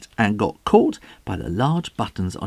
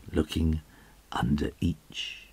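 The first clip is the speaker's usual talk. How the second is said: whispering; 8 semitones lower, 8 dB quieter than usual. A narrator's reading. Tension building, hushed.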